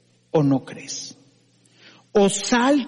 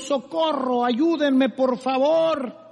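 cry for help; 6 semitones higher, slower than usual. Acted. Climber hanging from branch cries.

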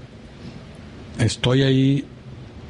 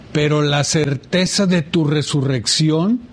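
slow, drawn-out prayer recitation, slightly raised; priest's prayer; 3 semitones higher, much slower than usual. Retold or imitated. Recalling the priest's prayer at Mass, slow recitation. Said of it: "hace una oración que dice".

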